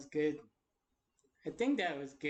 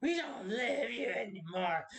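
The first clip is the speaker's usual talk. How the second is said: acted cold father, pitch dropped to usual; Voltage's dad; 4 semitones higher than usual. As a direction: disown the child with contained contempt. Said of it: "I'll just do it farther".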